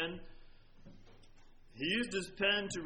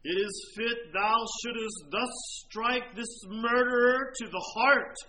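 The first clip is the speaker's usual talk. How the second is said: anguished cry; 4 dB louder than usual. Retold or imitated. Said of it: "his smitten conscience cried".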